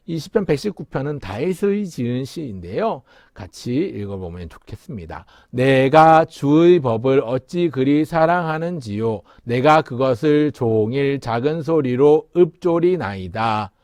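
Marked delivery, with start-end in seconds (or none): 5.5-13.7 slow, measured verse reading; slow recital in full voice; scripture recitation. Shown as a demonstration. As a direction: read the verse out slowly and clearly. Reciting the psalm aloud together.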